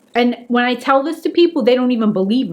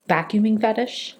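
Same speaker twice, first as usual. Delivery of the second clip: disbelieving, rising at the end; incredulous question; 2 semitones lower, 5 dB quieter than usual. Retold or imitated. Repeating the friend's words back in disbelief. Hearing Anthony's explanation.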